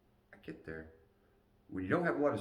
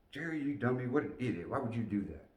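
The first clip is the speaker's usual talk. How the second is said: cussing myself; 5 semitones higher than usual. Retold or imitated. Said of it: "I was cussing myself".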